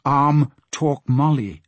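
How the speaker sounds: slow, drawn-out pidgin words; lightly voiced porpoise, each word drawn out; porpoise speech. Porpoise reporting to Asta, slow porpoise speech.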